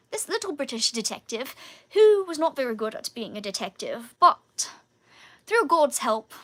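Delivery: put-on British detective accent. Shown as a demonstration. Describing the detective skit to viewers, in a put-on British accent. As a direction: slip into a stagey British accent. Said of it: "I can turn off the British accent now".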